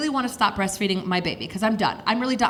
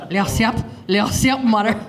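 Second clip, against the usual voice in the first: eerie daughter repeating her request; creepy child; 3 dB louder than usual. Retold or imitated. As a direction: chant it creepily at mother. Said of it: "makes it sound even creepier".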